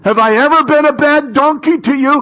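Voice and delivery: comic high-pitched donkey complaint; hammed-up talking donkey. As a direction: play the wounded donkey pleading with its rider. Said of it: "the angel turns around and he goes".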